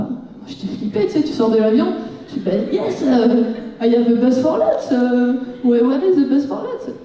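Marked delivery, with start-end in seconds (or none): 2.7-6.9 put-on hesitant French-accented English, question rising. Flustered traveller asking for the bus, French-accented English. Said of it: "avec mon super accent".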